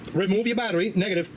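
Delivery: talking through hiccups. Real, not acted. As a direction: hiccups breaking the words. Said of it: "Got the hiccups I can't shake".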